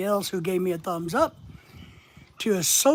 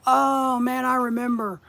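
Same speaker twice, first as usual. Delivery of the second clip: higher-pitched mock reminiscing; drawn-out "Oh man", pitched up; sudden fond recollection; 5 semitones higher, 3 dB louder than usual. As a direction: act out a memory suddenly flooding back. Acting out a triggered memory.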